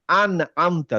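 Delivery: আন আমতা with the ন closed cleanly, no bounce, moving straight on; clean sukun, no bounce. Shown as a demonstration. Teacher shows students a plain sukun with no bounce. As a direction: say আন আমতা smooth and unbroken, no echo on the ন. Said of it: "দেখেন, আন বললাম".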